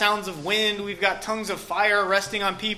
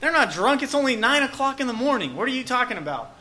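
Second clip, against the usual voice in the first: higher-pitched mock indignation; incredulous protest; 3 semitones higher than usual. Peter rebutting the crowd's drinking accusation, mildly incredulous. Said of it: "And Peter says".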